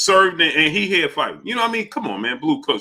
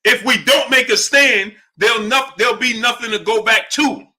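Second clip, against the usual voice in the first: Arnold Schwarzenegger impression; 5 semitones higher than usual. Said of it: "How Arnold Schwarzenegger said it in, in the Predator movie?".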